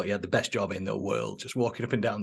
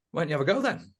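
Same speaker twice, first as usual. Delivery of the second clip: put-on Manc accent, pitched up; Bazza; 4 semitones higher, faster than usual. Sales manager daring the cocky newcomer, imitated Manc accent. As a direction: throw down a dare in mock Mancunian. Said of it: "like he does in this accent".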